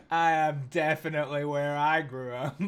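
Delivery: loud, mock-delighted sarcasm; sarcastic. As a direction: cheer it with ironic hometown pride. Sarcastic reaction to hometown kids.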